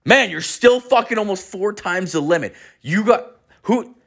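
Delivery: high-pitched, disbelieving protest; imitating a flabbergasted teacher; incredulous instructor. Instructor stunned by second reading.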